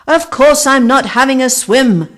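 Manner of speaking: loud, high angry yell. A narrator's reading. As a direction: yell it, dripping and furious. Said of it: "yelled Vic".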